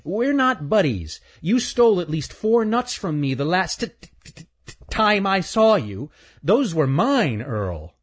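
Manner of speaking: high-pitched squirrel, stammering in protest; indignant stuttering squirrel. Acted. Squirrel accuses chipmunk of stealing nuts, high indignant stutter.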